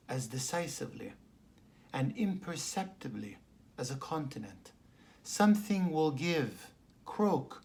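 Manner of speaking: deliberate recital, strong openings falling away at phrase ends; poetry reading. Real, not acted. Poet reads a poem called Dawning to listeners, measured poetry reading. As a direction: read it line by line, pausing after each image.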